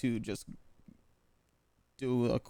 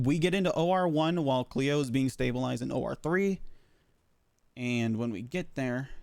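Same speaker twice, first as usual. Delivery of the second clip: out of breath. Real, not acted. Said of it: "I'm, like, winded for some reason".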